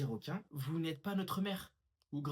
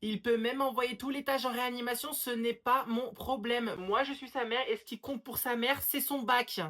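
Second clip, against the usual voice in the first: raised, higher angry tirade; ranting mother; 6 semitones higher, 3 dB louder than usual. Acted. Mother on the phone insisting on exams, ranting. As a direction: rant as an exasperated mum.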